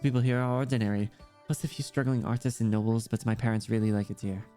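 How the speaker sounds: lightly voiced child with German accent; understated German-accented character voice; German-accented young girl. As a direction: chat like a German kid, lightly.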